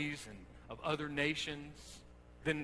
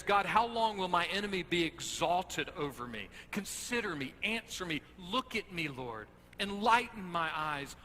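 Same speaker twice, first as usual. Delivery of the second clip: a loud, pleading cry of despair; anguished lament; 4 semitones higher, 5 dB louder than usual. Acted. Preacher voicing David's lament, loud anguished pleading. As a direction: cry out to God as if abandoned.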